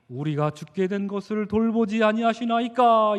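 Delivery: measured, polite scripture quotation; 예쁜 성경체. Acted. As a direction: read it as a prettified translation, without anger. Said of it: "이렇게 아름답게 예쁘게 번역을 하고 있지만". (곱고 점잖은 성경 낭독조)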